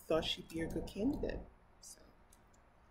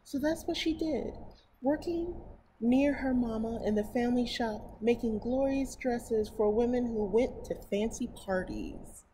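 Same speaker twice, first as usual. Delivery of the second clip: slightly higher, clearer storybook reading; story narration; 5 semitones higher, 4 dB louder than usual. Acted. Reading a picture book to her viewers, storybook narration. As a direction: read it aloud to children.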